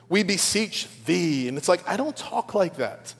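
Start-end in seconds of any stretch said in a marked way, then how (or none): 0.1-1.5 slow, drawn-out imitation of churchy pleading; mock formal prayer. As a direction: stretch it out with put-on solemnity. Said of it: "That feels formal".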